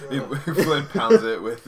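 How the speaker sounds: words broken by laughter; laughing. Real, not acted. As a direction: laugh through it.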